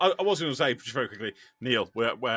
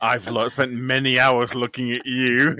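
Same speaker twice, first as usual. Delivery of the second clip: slow, loud creepy admirer; drawn-out creepy confession, put on; 3 semitones lower, 6 dB louder, slower than usual. Creepy stranger confessing to someone recognised at the gym, slow and mock-intense. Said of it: "a lot less creepy than yours".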